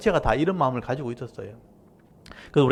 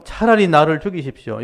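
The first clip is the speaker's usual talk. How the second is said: louder, defiant demand to die; defiant outburst; 3 semitones higher, 6 dB louder than usual. Retold or imitated. Jonah defying God with a louder angry outburst. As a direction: talk back to God in anger. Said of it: "하나님께 아예 대들게 되죠".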